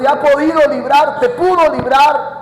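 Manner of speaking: king at the lions' den calling out; king calling sadly. Acted. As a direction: draw out the king's desperate question. Voicing the grieving king's call.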